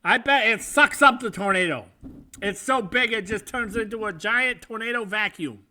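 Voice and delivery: lightly voiced old Jewish man; a hint of an awed old-timer. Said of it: "you sounded like some old Jewish man".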